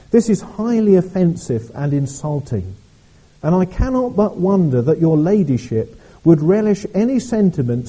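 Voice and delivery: a hint of an offended aristocrat looking down her nose; posh lady. Well-to-do lady refusing an invitation to hear Whitfield, mildly posh. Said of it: "in a really posh voice".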